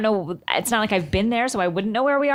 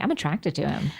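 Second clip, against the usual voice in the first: hushed confession; 7 semitones lower, 6 dB quieter than usual. Retold or imitated. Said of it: "now I'm like".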